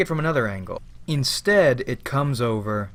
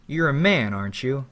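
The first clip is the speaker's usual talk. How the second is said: smug grin. Acted. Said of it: "he just grins smugly".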